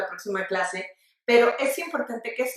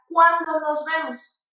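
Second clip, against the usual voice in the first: slow, higher "Cuándo" with CUÁN punched; stress on cuán; 4 semitones higher, 3 dB louder, slower than usual. Shown as a demonstration. Teacher contrasting a real question, strongly stressed "Cuándo". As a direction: hit the first syllable of "Cuándo" and stretch it. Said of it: "Esa tiene una sílaba tónica, ajá, en cuán".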